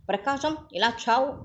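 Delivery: high, loud angry shout; a furious father yelling his son's name; bellowing. Acted. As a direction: bellow for the son across the house. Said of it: "గావుకక్క పెట్టాడు".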